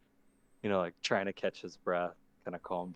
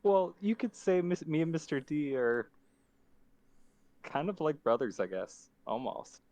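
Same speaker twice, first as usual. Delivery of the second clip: put-on much higher, panicked young creature; frightened kid voice; 8 semitones higher, 7 dB louder than usual. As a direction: stammer in terror. Mister B voice.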